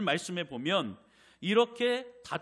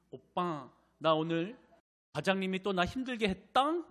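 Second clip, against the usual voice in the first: imitating a girlfriend's lisping baby talk, higher and louder; cutesy baby talk; 4 semitones higher, 3 dB louder than usual. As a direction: whine it sweetly to her boyfriend. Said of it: "혀 짧은 소리를 또 내면서".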